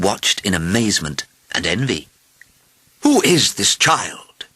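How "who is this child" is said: slow, high, amazed question; astonished king; crying out. A narrator's reading. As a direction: cry out in royal amazement, drawing the words out. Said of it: "he cried".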